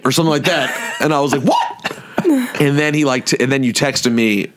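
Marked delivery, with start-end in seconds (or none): 1.4-2.0 re-enacted startled reaction, pitch shooting up; retold disbelief. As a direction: squeak it in mock shock. Acting out his shocked reaction.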